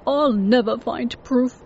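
ordinary delivery

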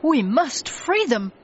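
rally to the rescue; urgent cry. A narrator's reading. Mister Logan wants to free the television people, urgent cry. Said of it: "he shouted".

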